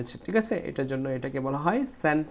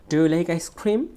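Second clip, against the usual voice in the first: slow question rising on "ice cream"; stress on "ice cream"; 2 semitones higher, 4 dB louder, much slower than usual. Shown as a demonstration. Teacher reading a model question, weight on "ice cream". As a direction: lift "ice cream" at the end. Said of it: "এটাকে stretch করতে হবে".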